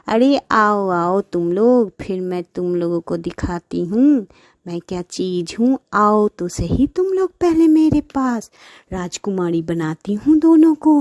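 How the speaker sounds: a hint of a scheming magic buffalo. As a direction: lure them in slyly. Buffalo plots revenge.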